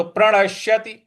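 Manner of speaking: प्रणश्यति with a pressed, doubled श; stress on श. Shown as a demonstration. Teacher modelling प्रणश्यति, stressed श. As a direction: intone प्रणश्यति, leaning into श. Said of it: "इस पर भी हमको आघात देना है".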